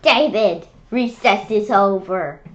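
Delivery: loud teacher call; teacher calling David. Acted. Kid playing the teacher, calling David in loudly. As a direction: call him in from recess, firmly. Child voicing teacher in book.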